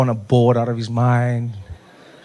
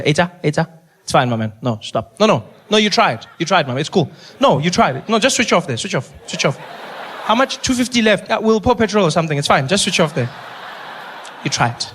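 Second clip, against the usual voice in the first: 1 mock consoling the shooter; 3 semitones higher than usual. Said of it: "I would have been there at the doctor".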